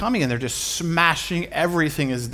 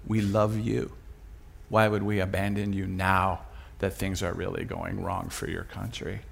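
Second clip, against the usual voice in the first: soft, low, sincere reassurance; tender pledge; 5 semitones lower, 8 dB quieter than usual. Retold or imitated. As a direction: gently promise loyalty, quiet and slightly low. Neighbours' tender pledge, retold.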